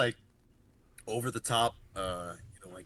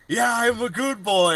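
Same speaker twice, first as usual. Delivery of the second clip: much louder, higher mock demon; 9 semitones higher, 9 dB louder than usual. Retelling the movie to friends, loud mock demon voice. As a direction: belt it out like the demon behind the door.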